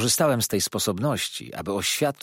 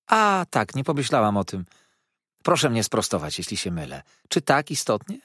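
put-on sweetly insincere, pitched up young woman; mock-naive lady. Miss Dartle teasing Mrs Steerforth, sweetly insincere. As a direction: feign innocent puzzlement.

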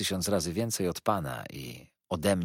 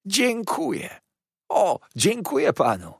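high-pitched, fawning gratitude; effusive thanks; 12 semitones higher, 5 dB louder than usual. Acted. Heep thanking for praise of Agnes, effusively. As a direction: gush as if personally honoured.

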